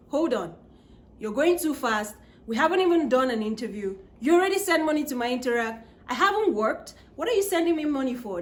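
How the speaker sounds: retold panic. Telling the sender to hold on, mildly panicked. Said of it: "I started panicking".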